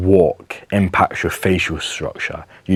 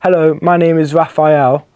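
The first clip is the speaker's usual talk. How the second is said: high, louder, perky customer service greeting; 10 semitones higher, 5 dB louder than usual. Shown as a demonstration. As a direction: put on a customer service voice, pitched way up. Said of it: "like a customer service voice".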